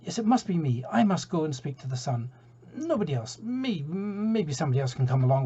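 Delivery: high, pushy seagull insisting; a keen gull claiming the trip; eager seagull. Acted. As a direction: puff yourself up as the only choice. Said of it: "you're enthusiastic".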